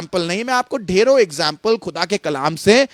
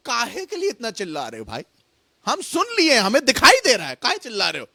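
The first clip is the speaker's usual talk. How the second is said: mock exasperation. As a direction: playfully put out by all the noise. God's exasperated reply in colloquial paraphrase. (दबी आवाज़ में झुंझलाहट का अभिनय)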